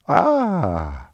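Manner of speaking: long, falling "ah"; exasperated sigh. Real, not acted. Radio host despairing at government contradictions, exasperated sigh. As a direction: let out a drawn-out "ah" sliding down from high. Exasperated at the news just recounted.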